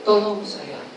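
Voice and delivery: soft plea fading almost to nothing; pleading for help. Retold or imitated. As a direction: beg quietly, letting the second one die away. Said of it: "dia berkata kepada kita". (permohonan lirih yang makin menghilang)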